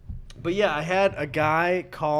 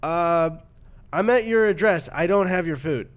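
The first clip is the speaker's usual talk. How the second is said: imitating delivery guy; 3 semitones higher, 6 dB louder than usual. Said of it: "And he goes".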